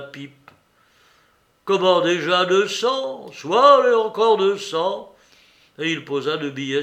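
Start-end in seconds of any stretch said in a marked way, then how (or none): 1.6-5.1 loud, high, surprised then reckless; protest, then throw in more money; raised voice, impulsive and bold; heated gambler. A narrator's reading. Losing gambler raises the bet.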